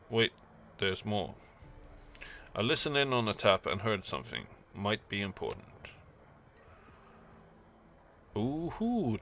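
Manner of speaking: a hint of a gracious Berlin informant offering coffee; courteous host. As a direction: innkeeper greeting a returning guest. GM voices host Brakazi.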